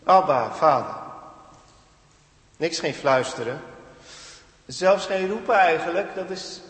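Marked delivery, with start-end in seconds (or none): 0.0-1.0 loud cried "Abba, Vader"; crying out. Acted. Preacher voicing the Spirit crying "Abba, Vader" in our hearts, loud. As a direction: call it out like a roar from the heart. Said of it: "die roept".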